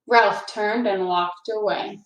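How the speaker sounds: put-on reading a children's book aloud; story narration. A narrator's reading. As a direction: tell it gently to a class of kids. Reads a picture book aloud.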